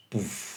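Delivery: soft, low "puf" for a landing; imitated impact puff. Teacher imagining the falling brick landing, soft imitated puff. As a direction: make a small muffled thud with the mouth.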